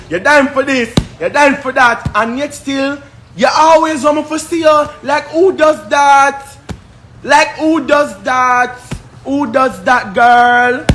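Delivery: pitched high, exasperated yelling at her. Real, not acted. Ranting at Destiny online, high exasperated shout. Heated rant at a rival.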